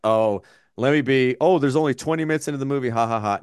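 mock-jokey delivery with a spoken fake laugh; joking act, ending in deadpan ha-ha-ha. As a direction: play at making a wisecrack. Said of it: "normally I joke".

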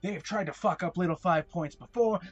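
put-on Southern accent. Game master voicing the other arguing man, Southern-inflected accent. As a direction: argue back with a Southern lilt. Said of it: "the sort of more Southern inflected voice says".

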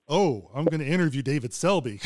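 a touch of nervous dread; mild dread. Retold or imitated. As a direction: let the thrill turn to worry. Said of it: "It's like".

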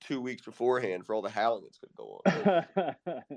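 hoarse, nearly gone voice; talking through a lost voice. Real, not acted. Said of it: "I have no voice".

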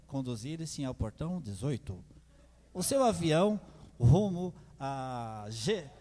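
formal airport boarding call; airport announcement. Retold or imitated. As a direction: announce it like a gate agent. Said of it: "todo tempo avisando".

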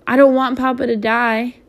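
put-on a child's understated wail of fear. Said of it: "wailed little man".

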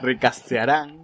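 words a little slurred, x0.6 slow. Real, not acted. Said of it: "Estoy borracho".

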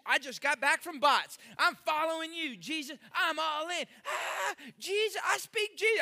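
hammed-up spiritual high; pumped-up believer. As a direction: gush like you just got back from camp. Mocking hyped believer after retreat.

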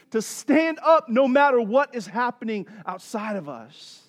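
driving, emphatic sermon delivery; forceful preaching. Real, not acted. Preacher telling friends how peace guards them, forceful preaching. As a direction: press each point home to the congregation.

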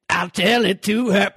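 mock turtle blues voice; deep hollow tone. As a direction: croon it like a weary bluesman. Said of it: "in a deep, hollow tone".

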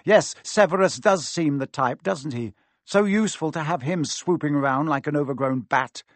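icy amusement, crisply put; cold, sharp. Acted. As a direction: sneer with cool, cutting precision. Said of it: "but cold and sharp".

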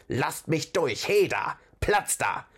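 high, slow, squeaky troll calls; squealing troll. A narrator's reading. Masked troll pushes through the crowd, squealing. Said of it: "quiekte er".

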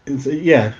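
ordinary talk, nothing marked

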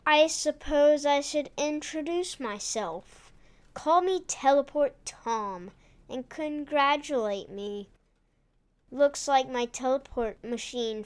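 lightly voiced scheming villain; villain gloating over captives, lightly played; bad guy voice. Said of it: "He said in a bad guy voice".

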